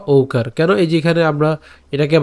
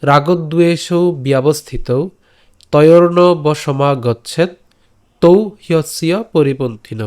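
slow verse recitation; slower than usual. Shown as a demonstration. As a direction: chant the Sanskrit verse slowly. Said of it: "আজকের শ্লোকটি হল". (ধীরে শ্লোক পাঠ)

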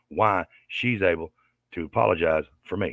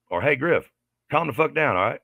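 higher, snippy retelling of her line; mocking imitation of her; 6 semitones higher than usual. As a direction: quote her like she's nagging. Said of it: "first thing that come out of her mouth".

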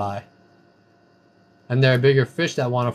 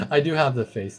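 laughing. Real, not acted. Laughing at a chat remark.

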